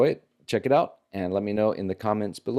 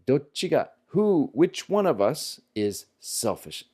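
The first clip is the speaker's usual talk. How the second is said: retold shout; 6 semitones higher than usual. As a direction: play the angry comeback half-heartedly. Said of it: "they're shouting".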